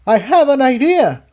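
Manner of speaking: mild mock yell. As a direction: call out a sudden plan. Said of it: "Jigsaw yelled".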